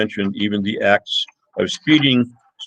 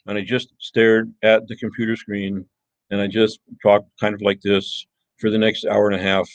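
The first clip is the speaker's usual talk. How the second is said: monotone. Shown as a demonstration. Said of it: "speaks in a monotone".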